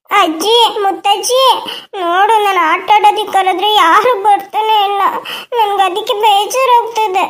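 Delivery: put-on a child tattling through tears; tearful child. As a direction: sob out the complaint to great-granny. Child cries to great-grandma.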